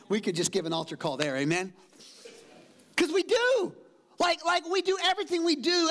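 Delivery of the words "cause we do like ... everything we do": preaching shout. Real, not acted. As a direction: belt it to the back row.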